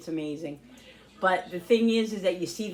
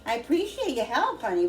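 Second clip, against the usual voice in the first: calling from far away; 6 semitones higher, 4 dB louder than usual. Real, not acted. Answering family member off camera.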